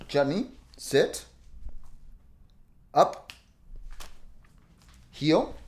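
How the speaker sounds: short, strict dog commands; stern on-vest voice. Real, not acted. Owner commands service dog in vest, stern and strict. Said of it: "my on-vest voice is very stern and strict".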